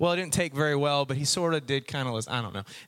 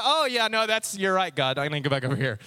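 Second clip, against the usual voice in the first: hasty agreement. Acted. Corrected believer hastily agreeing with God.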